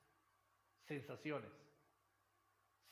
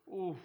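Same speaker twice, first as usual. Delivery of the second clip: tired uf; 6 dB louder than usual. Shown as a demonstration.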